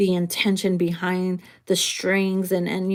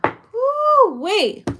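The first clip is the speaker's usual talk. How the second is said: higher, louder, flustered yelps; itchy nose; 10 semitones higher, 6 dB louder, much slower than usual. Real, not acted. Reader interrupted by an itching nose, real flustered yelps. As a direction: fight off a sudden itch mid-sentence. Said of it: "my nose is starting to itch".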